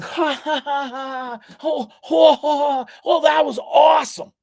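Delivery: high laughing shout of glee; mock laughing crowd yelling their delight. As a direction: cackle it out, then cheer. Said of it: "And they're like".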